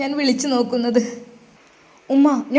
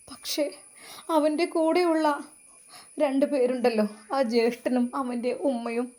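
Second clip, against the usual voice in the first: hushed, tearful warning; 5 dB quieter than usual. Acted. Ayisha tearfully warns Rizwan.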